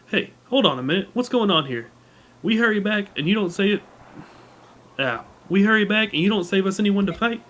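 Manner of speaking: lightly voiced indignant soldier; character dialogue reading. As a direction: read it as a put-out knight. Reads game character dialogue aloud.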